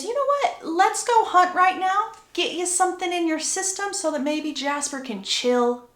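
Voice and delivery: husband lightly steering his wife away from tension; breezy suggestion. Retold or imitated. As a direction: toss off a casual plan. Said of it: "And Edward says".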